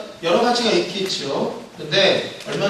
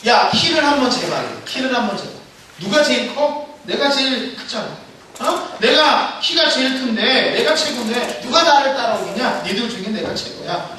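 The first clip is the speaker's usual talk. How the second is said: higher, swaggering brag; bragging middle finger; 5 semitones higher than usual. Acted. Middle finger boasts it is tallest, higher and swaggering. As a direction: lord your height over them. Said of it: "세 번째 손가락이 말하기를".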